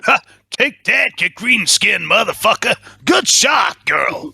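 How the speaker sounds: excited cheer. Acted. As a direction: yell in triumph. Cheering a hit in combat.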